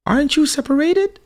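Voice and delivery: very high, loud disbelieving question; mock astonished mother; imitated shocked mom; surprised mom.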